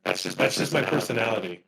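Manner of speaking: distorted robotic mic voice. Real, not acted. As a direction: sound like a glitchy robot. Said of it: "a Mister Sinister robot voice right now".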